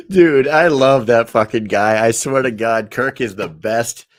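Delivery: loud, gushing praise; excited rave. Real, not acted. Host raving loudly about his friend Kirk. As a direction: rave about him at full volume.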